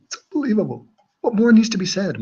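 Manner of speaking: very high put-on voice; mock disbelief. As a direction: keep the hammed-up squeal going. Meme outburst in put-on high voice.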